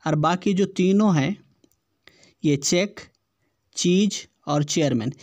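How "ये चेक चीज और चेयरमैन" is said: चेक, चीज, चेयरमैन each opening on "ch"; CH as "cha". Shown as a demonstration. Teacher groups the matching options, चेक, चीज, चेयरमैन with CH. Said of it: "सी एच का उच्चारण है वो चा".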